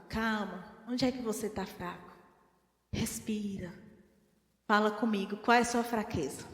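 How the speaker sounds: soft, low reassuring calm; God's gentle voice. Retold or imitated. God gently calming the angry believer, soft and reassuring. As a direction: speak as a patient father soothing a child. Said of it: "é o que Deus fala".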